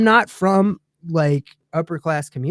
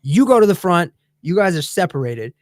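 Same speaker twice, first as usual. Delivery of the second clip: firm authority; 4 dB louder than usual. Retold or imitated. Flight attendant to the passengers, firm and commanding. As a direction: lay down the law, unhurried. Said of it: "like, in the firm".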